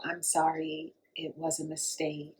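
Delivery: soft, slow, low-key excuse; mock apology. Driver excusing a fatal accident, mock apology.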